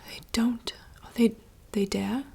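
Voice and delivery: slow, hushed theatrical reading; whispered dramatic monologue. Acted. Reading a princess's forest monologue aloud in rehearsal, hushed theatrical whisper. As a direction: whisper the lines like a stage soliloquy.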